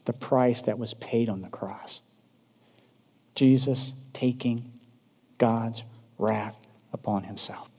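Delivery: low, soft, grave reminder; solemn hush. Real, not acted. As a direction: bring the voice down almost to a hush. Solemn reminder of the price paid.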